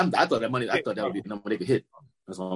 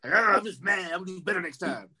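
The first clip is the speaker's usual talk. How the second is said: mock excuse; 7 semitones higher than usual. Mocking an excuse, then contract offer.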